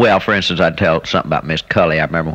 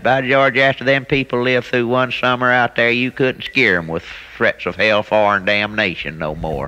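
lightly voiced preacher, pitched up, settling at the end; exasperated preacher, retold; 5 semitones higher than usual. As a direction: retell a preacher's complaint in a higher voice. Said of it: "he said he give up preaching".

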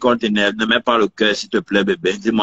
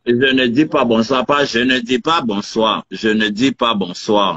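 slow, drawn-out teasing imitation of her Ivorian accent; mocking Ivorian accent. Boyfriend mocks girlfriend's refusal, slow teasing Ivorian accent. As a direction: mimic her Ivorian accent slowly to tease. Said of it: "c'est mon accent".

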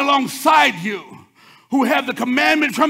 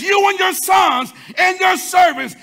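royal command; 9 semitones higher, 7 dB louder, slower than usual. Retold or imitated. Preacher voicing King David.

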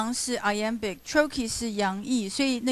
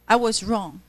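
"wrong" said heavily, a touch louder; heavy on wrong; 4 dB louder than usual. Shown as a demonstration. Teacher reading the line to class, "wrong" heavy. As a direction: land hard on "wrong". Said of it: "wrong这个音就很自然，就很重".

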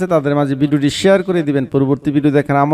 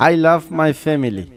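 slow, careful English for learners; slow dictation of I love my family; slow teaching read; much slower than usual. Shown as a demonstration. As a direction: spell it out slowly, word by word. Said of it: "আমি আমার পরিবারকে ভালোবাসি".

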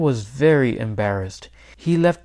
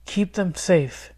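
higher, slow, pleading prayer; 6 semitones higher, slower than usual. A narrator's reading. Boy praying for his father and his turkey, prayerful. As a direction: pray slowly in a lifted voice. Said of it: "he prayed".

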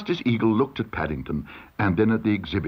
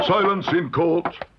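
high, slow courtroom command; judge calling order; 8 semitones higher, slower than usual. A narrator's reading. Judge orders silence in court, calling out. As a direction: draw out the order imperiously.

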